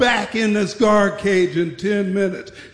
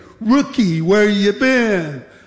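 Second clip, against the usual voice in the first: snide, mocking, sarcastic, needling tone. Retelling how a fellow guard greeted him back at the guard cage, retold sarcastic question. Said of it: "he said sarcastically".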